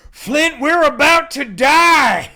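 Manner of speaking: very high, loud, slow Southern wail; Southern panic. Acted. Trucker screaming to his brother Flint, loud Southern wail. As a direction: scream it to your brother in drawn-out terror. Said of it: "they're written Southern, too".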